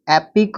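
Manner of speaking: एपिक said slowly as one unit, ep-ik; slow one-unit word. Shown as a demonstration. Teacher models एपिक slowly for the class. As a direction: draw out एपिक carefully for students. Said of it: "एक ही syllable में पढ़ेंगे".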